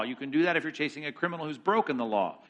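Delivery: usual speaking voice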